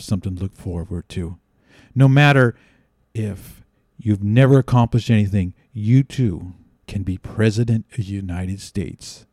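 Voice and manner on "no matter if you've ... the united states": lower, softer, solemn address; mock presidential sign-off. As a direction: wind down into a hushed benediction.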